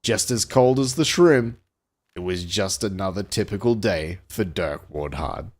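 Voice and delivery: pulp-thriller closing line; storyteller signing off the tale; story narration. A narrator's reading. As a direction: settle down into a deliberate wrap-up.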